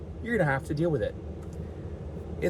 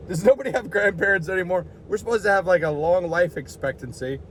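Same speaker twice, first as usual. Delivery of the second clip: imitating old people; 4 semitones higher than usual. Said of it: "They're like".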